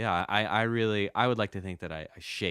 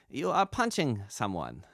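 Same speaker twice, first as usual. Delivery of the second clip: slow, deliberate direction, slightly raised pitch; lightly voiced studio engineer giving instructions; imitated Chinese sound engineer; 4 semitones higher than usual. Sound engineer cueing a voice actor in the booth, deliberate instruction. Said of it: "Chinese sound engineers".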